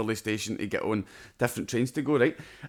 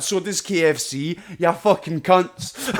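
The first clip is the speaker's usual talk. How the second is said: mock outrage; 6 semitones higher, 6 dB louder, slower than usual. Retort to Burger King worker.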